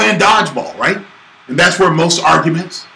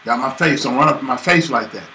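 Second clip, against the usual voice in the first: annoyed; 3 semitones lower, 4 dB quieter than usual. Retold or imitated. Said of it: "I said".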